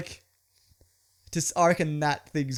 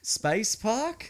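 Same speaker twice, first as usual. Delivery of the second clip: incredulous; 9 semitones higher than usual. Real, not acted. Incredulous sequel joke.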